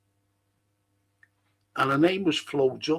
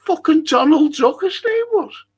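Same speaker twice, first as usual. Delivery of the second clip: amused disbelief; 11 semitones higher, 5 dB louder than usual. Real, not acted. Laughing disbelief at the name.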